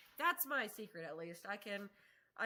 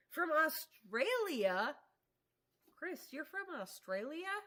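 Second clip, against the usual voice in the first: drawn-out, amazed question rising high; can't believe what she just read; stunned disbelief at a faraway viewer; surprised; 6 semitones higher, 4 dB louder, slower than usual. Real, not acted. Viewer reveals they're in Australia.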